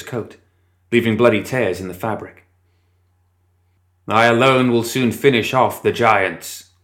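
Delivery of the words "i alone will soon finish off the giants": slow, solemn intoning; intoned. Acted. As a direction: intone it like a grim chant. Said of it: "Collodi intoned".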